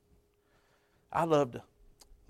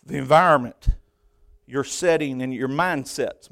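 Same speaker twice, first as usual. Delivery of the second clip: deliberate, with pauses between phrases; saying it slow; 5 dB louder than usual. Real, not acted. Preacher giving one last truth, saying it slow. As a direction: set out each term separately, taking time. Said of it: "I'll say it slow".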